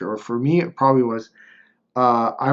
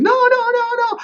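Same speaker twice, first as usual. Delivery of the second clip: panicked opponent; 5 dB louder than usual. Retold or imitated. Second opponent voiced panicking.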